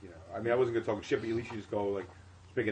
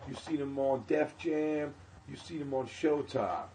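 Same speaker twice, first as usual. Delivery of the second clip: higher, slower, building announcer hype; hype-man host intro; 7 semitones higher, 7 dB louder, slower than usual. Retold or imitated. Host stalling while forgetting the name, building hype intro. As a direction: pump up the crowd like a flustered club host. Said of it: "He goes".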